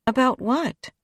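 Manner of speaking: high called question; shouting up. A narrator's reading. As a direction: shout it down from a window. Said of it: "I shouted".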